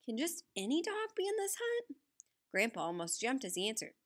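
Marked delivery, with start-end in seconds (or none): 0.0-2.0 croaked. A narrator's reading. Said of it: "I croaked".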